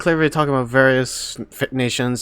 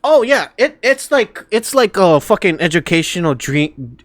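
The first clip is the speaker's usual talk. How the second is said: excited; 4 semitones higher, 5 dB louder than usual. Real, not acted. Hyped reaction to game academy.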